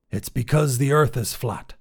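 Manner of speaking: lightly processed, auto-tuned sound; a touch of synthetic tuning on the voice. Acted. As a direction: say it as if through auto-tune. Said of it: "with an auto-tuned voice".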